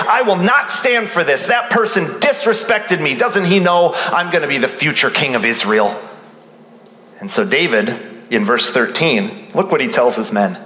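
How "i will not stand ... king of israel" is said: puffed up. Acted. Preacher voicing a disrespected David, puffed up and emotional. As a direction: act out wounded self-importance, pitch raised at first. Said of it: "you get puffed up".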